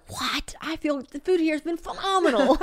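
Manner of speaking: high-pitched, incredulous protest; mock outrage at a silly suggestion; mock disbelief. Woman retelling her reply to a queasy friend, mock disbelief.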